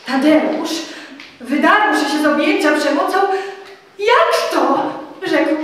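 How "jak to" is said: sudden higher, louder "Jak to?"; startled. Acted. Tadeusz startled by Telimena's offer, disbelieving. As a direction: blurt it out in disbelief.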